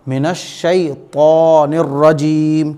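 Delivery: slow मिनश शैतानिर रजीम with a heavy ता; tajweed recitation. Shown as a demonstration. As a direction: stretch the long vowels of शैतानिर and रजीम. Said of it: "तो मोटा पढ़ा जाएगा". (धीमी तिलावत, ता मोटा)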